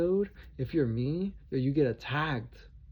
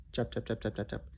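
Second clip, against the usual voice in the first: imitated chopping; 4 semitones lower, 7 dB quieter than usual. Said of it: "I heard this".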